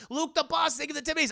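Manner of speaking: derpy voice. Retold or imitated. Derpy dazed dad.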